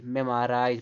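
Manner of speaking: "मेमोराइज" as mem-a-raaiz; "मेमोराइज" with the o weakened to a; correct pronunciation. Shown as a demonstration. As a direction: say "मेमोराइज" with a short uh in the middle. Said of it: "पढ़ेंगे इसको".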